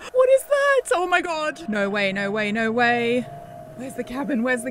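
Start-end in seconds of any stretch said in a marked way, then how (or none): 0.1-3.2 high, loud panicked cry; terrified shriek. Real, not acted. Panicking alone in the woods at night. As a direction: shriek as something looms in the dark.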